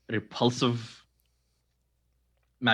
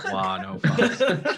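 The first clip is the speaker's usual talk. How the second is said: alarmed; 8 semitones higher, 5 dB louder, much slower than usual. Real, not acted. Choking friend, others react.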